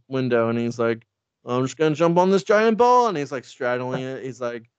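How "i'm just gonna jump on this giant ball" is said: high, loud, rising declaration; mock-heroic announcement. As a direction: announce an absurd leap with gusto. Batman announcing a silly leap.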